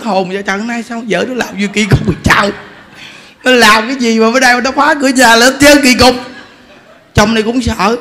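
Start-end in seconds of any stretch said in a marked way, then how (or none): 0.3-6.1 a touch louder, baffled husband asking why; puzzled husband. Retold or imitated. Telling the story of the husband puzzled at his wife's strange behaviour. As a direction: retell the husband's confusion with rising alarm.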